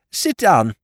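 high, loud Lord Drever voice; eager urging in his high voice; pressing her to sit, high and eager. A narrator's reading. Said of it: "he urged".

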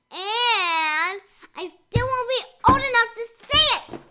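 hammed-up whiny complaint; half-crying, faked for fun; mock whining. Complains she's too young.

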